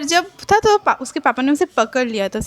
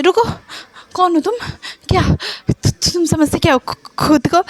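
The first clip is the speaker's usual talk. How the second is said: screaming; 5 semitones higher than usual. A narrator's reading. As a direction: yell at him in shock and hurt. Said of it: "चीख के कहता है".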